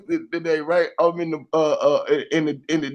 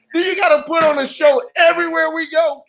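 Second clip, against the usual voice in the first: mock exasperated family; 10 semitones higher than usual. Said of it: "My wife and my kids just be like".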